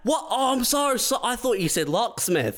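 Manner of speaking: high, flustered backpedal; flustered fake doctor. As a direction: babble it in a fluster.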